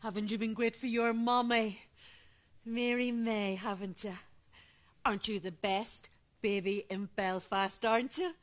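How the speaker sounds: put-on baby talk. Grandmother cooing to the baby.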